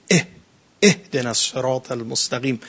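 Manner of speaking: اه and اهدنا with the glottal catch pushed up from the belly; heavy guttural hamza on اهدنا; deep hamza from the belly. Shown as a demonstration. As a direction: say اهدنا starting with a hard throat stop from deep down. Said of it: "دقیقاً اون اقصا و پایین ترین".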